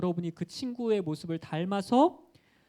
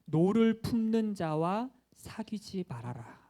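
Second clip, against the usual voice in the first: slow, measured verse reading; scripture quotation; 2 semitones higher, much slower than usual. Acted. Preacher reads a proverb to the children, slow and deliberate. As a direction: read the proverb out slowly and deliberately. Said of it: "잠언에 이렇게 나와 있어요".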